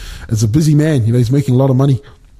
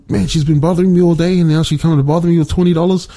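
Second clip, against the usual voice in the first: higher, fast mock exasperation; incredulous father; 4 semitones higher, faster than usual. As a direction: act out a dad put out by the nerve. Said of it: "father can't believe the audacity".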